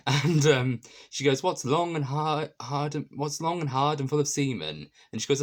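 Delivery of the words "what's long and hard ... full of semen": lightly voiced teasing riddle, a touch higher; acting out a cheeky riddle. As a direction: pitch it up a little, playful and sly. Nina's riddle acted out.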